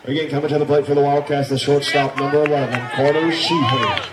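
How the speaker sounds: booming PA voice in a ballpark; echoing stadium announcer. Real, not acted. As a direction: announce the batter over the stadium speakers. PA announcer introducing batter.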